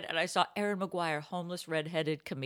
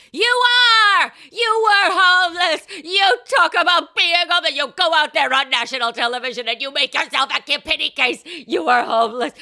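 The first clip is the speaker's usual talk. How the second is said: high, very loud, insistent shouting; hammed-up friend hollering orders; yelled pep talk; 10 semitones higher, 14 dB louder than usual. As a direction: drum it into them at a shout. Acts friend yelling a pep talk.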